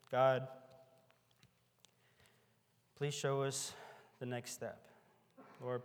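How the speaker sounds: closing prayer. Acted.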